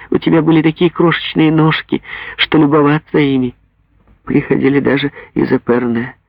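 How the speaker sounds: high, rising joyful mother voice; a mother overwhelmed by finding her child; overjoyed mother. Acted. Overjoyed mother talks to daughter.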